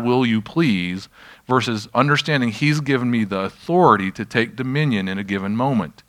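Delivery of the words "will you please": slow, mild plea; asking. Acted. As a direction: draw it out as a polite request. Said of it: "difference between asking God".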